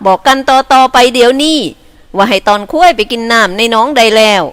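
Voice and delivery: lightly voiced teasing villager; character voice. Young herder teasing a friend, lightly voiced.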